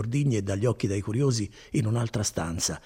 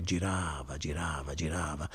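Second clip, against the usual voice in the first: each girava softer and lower; fading repetition; 5 semitones lower, 8 dB quieter than usual. Acted. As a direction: let the words spin away into quiet. Imitating the turning reel. (girava ripetuto sempre più piano)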